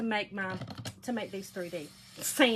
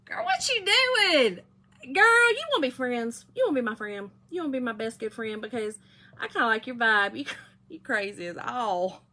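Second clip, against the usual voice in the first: imagined friendly gush. Retold or imitated. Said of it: "who I am would have been like".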